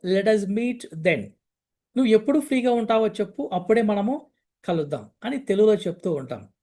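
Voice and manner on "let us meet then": slow teaching read. Shown as a demonstration. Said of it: "ఎప్పుడు ఫ్రీగా ఉంటావు? (phrase being taught)".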